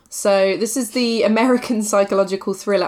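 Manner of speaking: words breaking into a little laugh; laughing already. Real, not acted. Podcast host introducing a thriller series, laughing already. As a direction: start to crack up mid-introduction. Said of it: "I'm laughing already".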